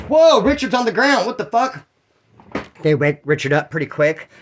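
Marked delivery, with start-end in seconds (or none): 0.1-1.8 high-pitched replayed astonishment; startled reaction. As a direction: burst out at the shocking sight, then drop in volume. Acts out finding Richard knocked down.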